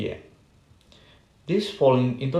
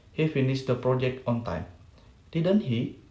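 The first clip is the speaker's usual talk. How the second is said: statement, then a falling "Didn't he"; falling tag question. Shown as a demonstration. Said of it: "second and third that indicate the intonation is fall".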